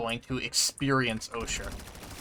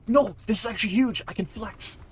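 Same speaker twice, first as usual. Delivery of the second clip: excited; 8 semitones higher, 3 dB louder than usual. Real, not acted. Sudden lucky find in game.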